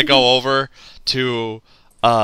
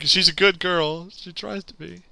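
mock condescension; 3 semitones higher, 9 dB quieter than usual. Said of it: "He was like".

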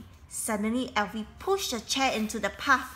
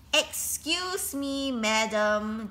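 calling after her; 2 semitones higher, much slower than usual. A narrator's reading. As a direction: call out to a speeding rider. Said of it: "called after her".

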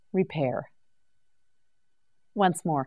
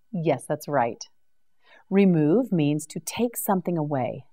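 ordinary delivery

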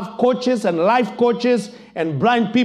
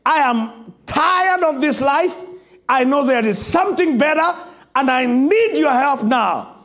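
desperate, broken plea; 6 semitones higher than usual. Acted. Blind man begging Jesus for help, mild desperate plea. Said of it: "the cry of a desperate, broken man".

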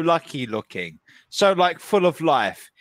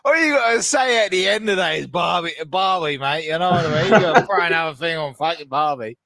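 mock Aussie; 2 semitones lower, faster than usual. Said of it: "you sound fucking Aussie".

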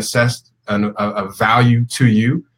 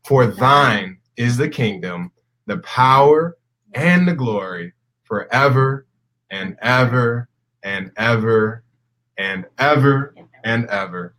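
solemn, measured Lord's Prayer recitation; reciting prayer; slower than usual. Real, not acted. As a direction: lead the group in prayer, slow, drawn-out phrases.

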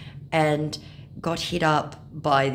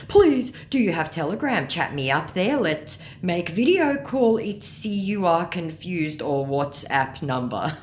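higher, slow, pleading scammer voice; mock a pushy scammer, dragging out the words; 5 semitones higher, 3 dB louder than usual. Scammer pestering a fan for a video call, mock pleading.

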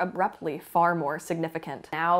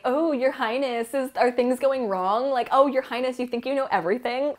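higher, sneering taunt; a hint of a smug villain mocking His Highness; mock bitchy taunting; 5 semitones higher than usual. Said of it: "how bitchy White No-Face is".

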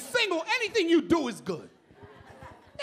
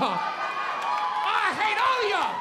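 mock hate; 5 semitones higher, 3 dB louder, much slower than usual. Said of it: "Shut up, I hate all of y'all".

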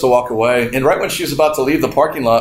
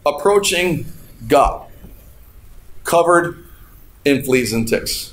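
slow preaching; slower than usual. Acted. Sermon point, slow and weighty.

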